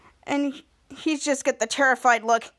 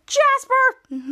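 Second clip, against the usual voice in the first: exasperated shout; 11 semitones higher, 5 dB louder than usual. Retold or imitated. Henry angrily blaming Jasper.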